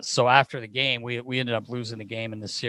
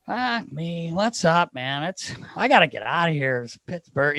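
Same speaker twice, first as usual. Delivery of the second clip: lightly voiced disheveled buddy, pitched up; higher, mildly put-on complaining voice; Phil Kessel; 5 semitones higher than usual. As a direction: imitate a teammate griping, a bit high. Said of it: "just being Phil".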